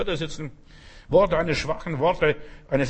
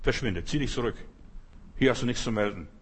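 calm command; 5 semitones lower, 6 dB quieter than usual. Shown as a demonstration. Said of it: "du musst nur sagen".

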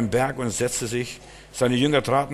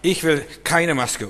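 retold shout; 5 semitones higher, 4 dB louder than usual. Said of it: "Und dann schreit er". (lauter, hoher Ausruf)

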